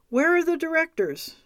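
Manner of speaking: sharp, high demand; woman demands to know where the directors are, sharp and high. A narrator's reading. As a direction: insist on an answer. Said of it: "I demanded".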